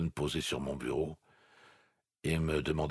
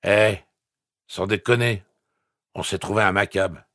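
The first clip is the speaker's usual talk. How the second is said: put-on drunk voice; 4 semitones higher, 9 dB louder than usual. A narrator's reading. Bob voiced tipsy on phone.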